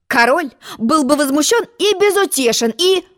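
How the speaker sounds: high, puffed-up royal boast; a lofty egg bragging about the king; pompous egg voice. Acted. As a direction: swell with self-importance. Humpty Dumpty boasting.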